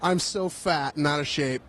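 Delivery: winded from walking; breathless and tired; out of breath. Real, not acted. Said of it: "I'm already freaking tired".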